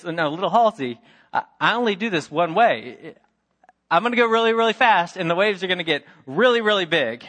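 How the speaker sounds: mock warning from the uncle; insistent uncle. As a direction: push it harder each time.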